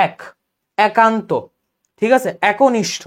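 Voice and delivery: এক, একান্ত with initial "æ"; open æ sound. Shown as a demonstration. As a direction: open the first vowel of এক to "æk". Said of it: "এই যে আমি এর মতো উচ্চারণ করতেছি". (অ্যা ধ্বনি দিয়ে এক, একনিষ্ঠ)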